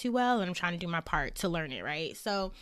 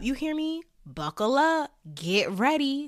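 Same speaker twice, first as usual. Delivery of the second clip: excited; 7 semitones higher, 6 dB louder than usual. Acted. Hyped warning continues.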